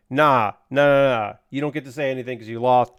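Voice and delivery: a smug leader cutting his man down, loud and fast; dismissive boss. Retold or imitated. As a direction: wave him off like a smug boss. Boss brushing off his underling.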